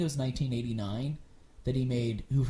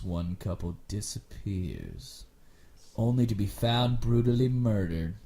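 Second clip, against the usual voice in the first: lower, slow, dramatic trailer narration; movie trailer voice; 5 semitones lower, slower than usual. Shown as a demonstration. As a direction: read it like an ominous horror trailer. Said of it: "I've been doing my mimic voice".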